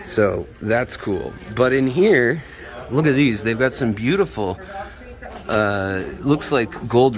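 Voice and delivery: speaking through a face mask; words dulled behind a mask; muffled through mask. Real, not acted. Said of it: "sorry if it's a little muffled".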